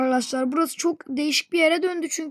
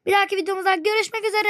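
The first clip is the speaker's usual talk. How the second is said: quick, higher hurried outro; rushed sign-off; 4 semitones higher, much faster than usual. Real, not acted. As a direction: rattle off the goodbye fast. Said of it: "ya ne olursunuz durun".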